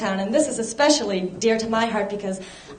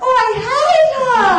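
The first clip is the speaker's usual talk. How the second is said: sophomore gossip; 11 semitones higher, 5 dB louder than usual. Retold or imitated. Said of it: "my impression of two Boston University".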